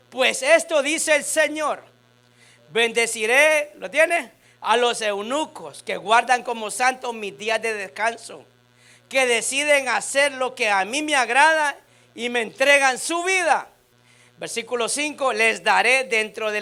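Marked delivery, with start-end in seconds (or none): 0.1-3.7 slow, emphatic Bible reading; scripture reading. Acted. Pastor reads Isaías to the congregation, slow emphatic proclamation. 4.6-13.7 emphatic Bible reading to a congregation; scripture reading. Acted. Pastor reads God's promise from Isaías, emphatic proclamation.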